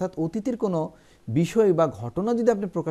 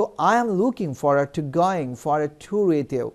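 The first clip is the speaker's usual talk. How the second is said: slow, careful English example; slow model sentence; much slower than usual. Shown as a demonstration. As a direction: read it slowly for learners.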